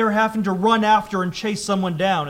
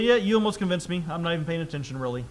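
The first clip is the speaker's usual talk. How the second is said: flippant; faster than usual. Shown as a demonstration. Agrippa not even paying attention to Paul, lightly flippant. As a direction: toss it away as if barely listening. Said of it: "is he just flippantly say".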